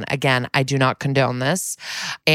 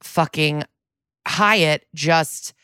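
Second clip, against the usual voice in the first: indignant; 2 semitones higher than usual. Retold or imitated. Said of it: "I go".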